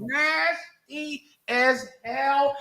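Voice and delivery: slow drawn-out ooh, teasing; slow teasing tut-tut; mock scandalized. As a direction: stretch it out like you're clutching pearls.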